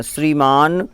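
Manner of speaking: श्रीमान with a long held न; clear श्रीमान. Shown as a demonstration. Teacher shows students how to say श्रीमान. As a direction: stretch the न in श्रीमान. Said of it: "पहले श्रीमान बोलना है क्योंकि दो ना है".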